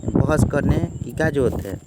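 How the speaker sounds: a loud, stretched-out ओहो of exasperation; fed up, telling them to stop arguing; drawn-out annoyance. Shown as a demonstration. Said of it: "खींच के द्वारा".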